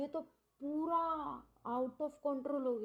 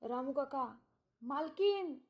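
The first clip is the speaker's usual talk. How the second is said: retold frantic calling; 3 semitones higher, much slower than usual. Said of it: "Nirupama जी जोर से चिल्लाई".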